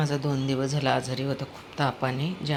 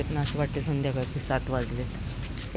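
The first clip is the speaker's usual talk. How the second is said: ordinary talk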